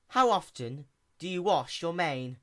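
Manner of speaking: quick, bright-eyed little mechanic pony; lightly voiced sea pony. A narrator's reading.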